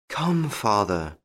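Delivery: slow, coaxing daughter; reasoning. A narrator's reading. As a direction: gently urge a father to see sense. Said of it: "trying to make him listen to common sense".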